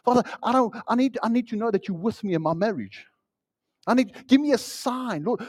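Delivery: hammed-up frantic prayer, pitched high; mock desperate prayer. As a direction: beg like a panicked believer.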